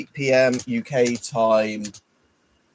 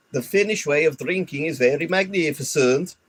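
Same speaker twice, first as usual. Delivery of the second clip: put-on Swedish accent; 5 semitones higher than usual. Streamer reading the short's narration in a Swedish accent. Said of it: "when I was doing the Swedish".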